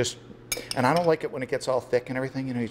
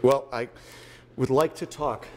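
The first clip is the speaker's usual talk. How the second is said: talking really slowly. Shown as a demonstration. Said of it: "talk really slowly".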